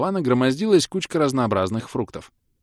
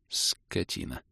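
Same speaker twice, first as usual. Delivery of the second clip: grumbled; 2 semitones lower, 9 dB quieter, much slower than usual. A narrator's reading. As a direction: mutter the insult to yourself. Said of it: "пробурчал я".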